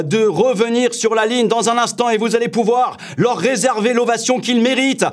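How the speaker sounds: cycling race announcer. Shown as a demonstration. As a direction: call the sprint finish to a stadium crowd, rising. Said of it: "pour animer des épreuves sportives et essentiellement des courses cyclistes".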